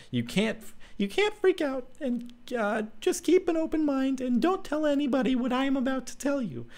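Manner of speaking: put-on high young woman's voice, urging him not to panic; high-pitched heroine making him swear to keep calm; Clara, pleading. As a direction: raise the voice into a young girl asking a promise.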